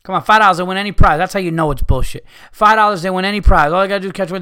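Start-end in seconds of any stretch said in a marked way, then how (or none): 0.0-1.2 carnie pitch. Retold or imitated. 2.5-4.4 carnie pitch. Retold or imitated.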